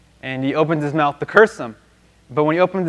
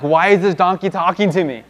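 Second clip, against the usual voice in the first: higher, louder mock disbelief; raised-pitch incredulous question; mock freak-out; 3 semitones higher, 5 dB louder than usual. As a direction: act mildly freaked out and baffled. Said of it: "stop to freak out".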